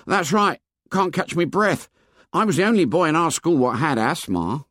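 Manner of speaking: high schoolboy voice, mildly proud; high boyish voice with understated pride; touch of pride. A narrator's reading. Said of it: "with a touch of pride".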